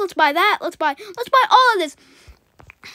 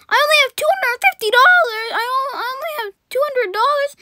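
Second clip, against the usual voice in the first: mock whine; 5 semitones higher than usual. Real, not acted. Gamer whining to viewers about being broke. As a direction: whine like you're broke, half-joking.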